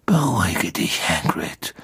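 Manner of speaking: hushed, curt order; a restrained rebuke; brusque. A narrator's reading. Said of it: "sagte Dumbledore barsch".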